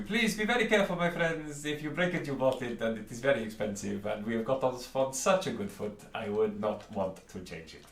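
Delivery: high, loud merchant voice full of polite menace; a fussy shopkeeper warning customers off his stock. Acted. Shopkeeper warning the players off the bottle, high and polite.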